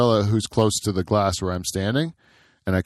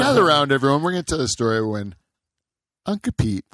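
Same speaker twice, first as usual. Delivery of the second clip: bedtime story dad; 5 semitones higher, faster than usual. Pretend. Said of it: "like a dad that's getting around to tell a story to his kids".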